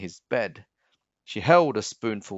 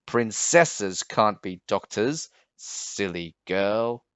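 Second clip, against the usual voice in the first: dismissive king; slower than usual. Acted. The king sneers at his niece, slow and dismissive. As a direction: talk down to her slowly.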